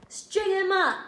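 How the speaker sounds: high, loud group demand; angry mob shout. A narrator's reading. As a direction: shout for punishment. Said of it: "the men of the touted shouted".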